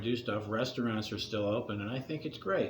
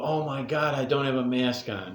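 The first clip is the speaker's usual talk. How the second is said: mock surprise; 2 semitones higher, 4 dB louder than usual. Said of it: "I go".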